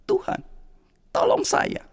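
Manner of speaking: breathless whispered prayer; whispered plea. Acted. Flooded man praying to God, whispered plea. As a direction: whisper the cry for help.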